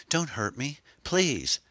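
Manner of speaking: high, pleading and frightened; frightened girl pleading with a stranger; terrified cry. A narrator's reading. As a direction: beg him not to hurt you, scared. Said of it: "she cried, terrified".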